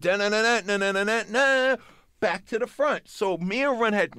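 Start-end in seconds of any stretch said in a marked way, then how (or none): 0.0-1.8 quick vocalised guitar riff; imitated guitar riff. Storyteller mimics where the guitars come in, imitated riff. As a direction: sing out the guitar lick in syllables. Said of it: "as soon as the guitars went".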